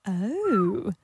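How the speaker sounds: put-on English accent. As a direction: purr it lightly in an English accent. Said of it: "a lady with a lady's English accent".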